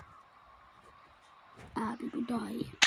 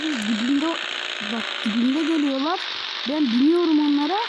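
excited; 4 semitones higher, 3 dB louder than usual. Real, not acted. Robots coming, excited gaming.

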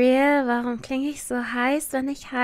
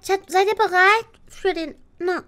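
hype host; 6 semitones higher, 5 dB louder than usual. Acted. Hyping chat for finale.

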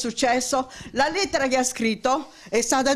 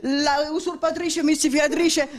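raised voice, high and heated; angry; 5 semitones higher than usual. Real, not acted. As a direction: hurl the accusations in a rising fury. Heated accusation in a quarrel.

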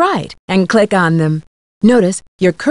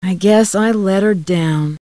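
remorseful. Acted. Blames herself for the loss.

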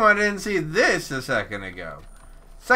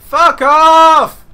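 screamed at full force, high; furious shout; 13 semitones higher, 15 dB louder than usual. Real, not acted. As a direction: bellow it in rage. Yelling at enemy in fight.

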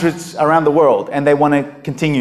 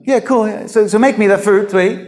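high, casual dismissive reply; the preacher mocking the prophet's casual answer to the widow, offhand; 4 semitones higher than usual. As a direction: shrug it off, couldn't care less. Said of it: "Listen to him".

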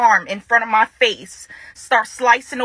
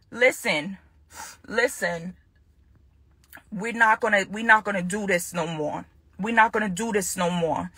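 quiet resolve; 4 semitones lower, 6 dB quieter than usual. Real, not acted. Woman calming herself before telling her ex it's over, quiet and firm. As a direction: lower and softer, steadying herself. Steadying herself mid-rant to ex.

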